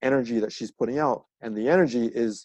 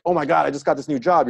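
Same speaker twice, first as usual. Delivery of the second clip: mildly excited woman sharing news, quick and higher; 4 semitones higher, 4 dB louder, much faster than usual. Acted. Woman telling her partner about a new job, excited. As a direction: imitate her excitement in a fast rush. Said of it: "when she's like".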